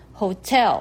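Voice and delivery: ホテル with the accent on テ, not on ホ; stress on te. Shown as a demonstration. Teacher demonstrating English hotel stress. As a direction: hit the テ in ホテル. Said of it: "手の方にアクセント".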